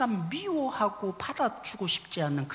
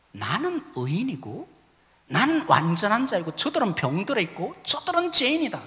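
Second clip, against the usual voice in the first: self-righteous; 4 semitones higher, 4 dB louder than usual. Retold or imitated. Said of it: "종교 지도자들이 왜 죄인들을 함께하는 예수님에 대해서 비난했다고요".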